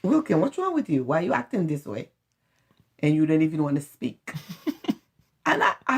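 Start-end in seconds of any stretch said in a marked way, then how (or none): 0.0-2.1 worried mom. Retold or imitated. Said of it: "I'm like".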